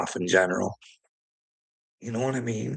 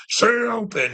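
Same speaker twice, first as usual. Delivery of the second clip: mock Moses; 10 semitones higher, 3 dB louder than usual. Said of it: "Moses is standing there".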